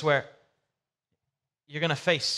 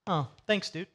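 unimpressed; 5 dB quieter than usual. Retold or imitated. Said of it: "really not hyped person".

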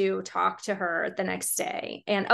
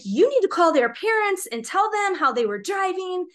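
high-pitched retold demand; mock indignant order, pitched up; very upset; 9 semitones higher, 3 dB louder than usual. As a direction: imitate an angry neighbour insisting. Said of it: "he was very upset".

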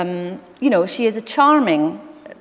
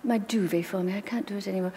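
posh grandmother; 2 semitones higher, 6 dB quieter, faster than usual. Retold or imitated. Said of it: "she would go".

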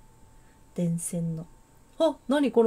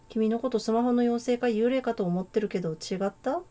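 put-on a light, amateur Kansai accent; casual Kansai-dialect girl, lightly voiced. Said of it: "関西弁風に喋るか。". (軽めの関西弁)

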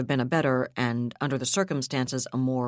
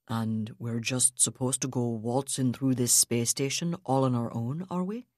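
skeptical; 3 semitones lower than usual. Acted. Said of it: "sounded a tad skeptical".

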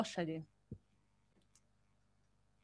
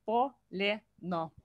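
slow and careful; slower than usual. Shown as a demonstration. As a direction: stretch полено slowly for the learner. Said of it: "Колено. Le".

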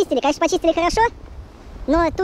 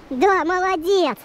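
drawn-out praise; much slower than usual. Real, not acted. Praising the dog on a walk.

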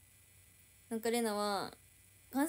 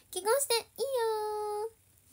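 high, loud, long-drawn playful yes; playful consent; 10 semitones higher, 5 dB louder, much slower than usual. Pretend. Streamer granting a viewer marriage, playful drawn-out consent. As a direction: sing it out high, stretching the last vowel.

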